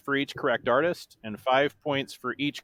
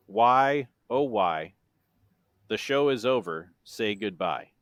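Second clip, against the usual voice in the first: love lyric read as dry prose; deadpan monotone. Shown as a demonstration. Quizmaster reads the sixth chorus clue, in a monotone. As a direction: recite line by line with long pauses. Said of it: "said in my best monotone voice".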